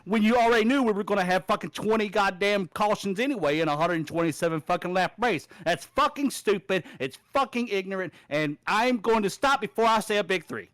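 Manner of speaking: pissed-off venting, words punched out; genuinely fed-up griping; real angry rant. Real, not acted. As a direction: rail at a stupid decision. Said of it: "completely understand why you're angry".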